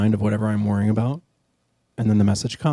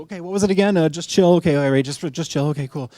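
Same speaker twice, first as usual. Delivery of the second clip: mock meth addict; 5 semitones higher than usual. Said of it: "a meth addict trying to go".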